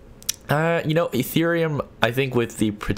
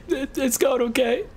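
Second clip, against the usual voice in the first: high, slow, squeaky dodge; slower than usual. Pretend. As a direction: squeak it out awkwardly, slowly. Asked about girlfriend, awkward dodge.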